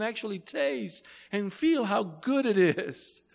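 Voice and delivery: high, loud, delighted showing-off of gifts; exuberant generous God. Acted. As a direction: preach it as God proudly presenting a feast. Preacher voices generous God speaking.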